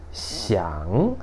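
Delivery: "xiang" drawn out, dipping then rising; third-tone "xiang". Shown as a demonstration. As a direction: say "xiang" slowly in a Mandarin third tone. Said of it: "Ó, terceiro tom".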